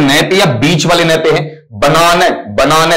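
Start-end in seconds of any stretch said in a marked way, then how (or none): 1.7-2.2 "बनाना" with pressure on the middle 'naa'; stress demonstration. Shown as a demonstration. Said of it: "सबसे ज्यादा बे पे pressure है". 2.5-2.9 "बनाना" with the middle 'naa' stressed; middle-syllable stress. Shown as a demonstration. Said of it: "सबसे ज्यादा बीच वाले पे है".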